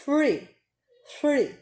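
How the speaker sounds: three with the tongue between the teeth; stressed three. Shown as a demonstration. Teacher modeling three for students with the tongue between the teeth. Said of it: "dando ênfase ao number".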